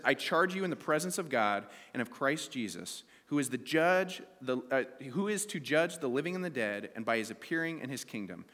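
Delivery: measured, solemn Bible reading; scripture reading. Acted. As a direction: read the passage aloud to the congregation. Reads scripture aloud.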